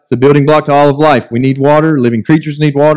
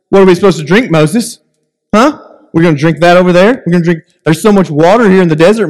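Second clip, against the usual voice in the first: taunting; 3 semitones higher than usual. Retold or imitated. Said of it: "taunting Moses".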